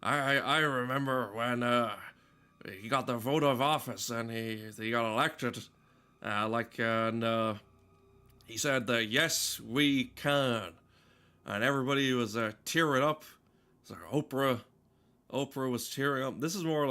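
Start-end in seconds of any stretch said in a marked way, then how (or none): 0.0-10.7 lightly voiced old Clint Eastwood, halting; a hint of a rambling old man, stammering; halting old-timer mumble, lightly done; Clint Eastwood impression. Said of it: "this is my Clint Eastwood impression".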